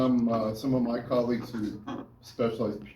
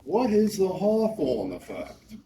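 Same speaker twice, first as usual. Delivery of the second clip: quizzing class; 9 semitones higher, 5 dB louder, slower than usual. Real, not acted. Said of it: "let me hear it from you guys".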